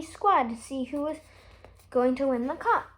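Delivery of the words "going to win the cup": usual speaking voice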